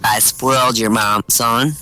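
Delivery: low, self-important dad; proud father. Acted. Father explaining to his son, proudly. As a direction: draw yourself up and pronounce it. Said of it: "The father draws himself up and says".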